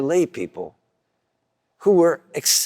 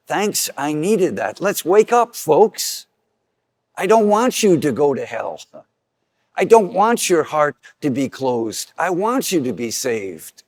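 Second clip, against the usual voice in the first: tough love call. Retold or imitated. Voicing Jesus's tough love.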